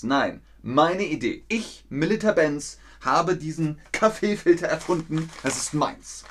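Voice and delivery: lightly acted protest, claiming the idea; possessive inventor. Teacher playing Melitta guarding her invention, possessive inventor. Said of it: "Melitta Benz will ihre Erfindung schützen".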